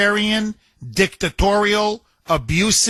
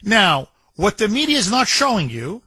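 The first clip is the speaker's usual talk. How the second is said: normal talking voice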